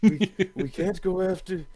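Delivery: mock Bernie voice. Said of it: "Are you talking about Bernie Sanders?".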